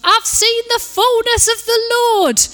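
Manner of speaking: high, loud ecstatic shout. Retold or imitated. Young man in the car shouting his revelation, high ecstatic shout. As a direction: bellow it out like a man overjoyed. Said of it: "he was shouting at the top of his lungs".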